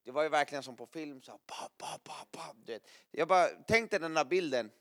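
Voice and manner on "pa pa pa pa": gunshot noises. Retold or imitated. Imitating gunfire into the forest.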